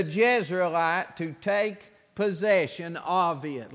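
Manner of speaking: solemn King James reading; scripture reading. Acted. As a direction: read it out like scripture. Reads scripture aloud.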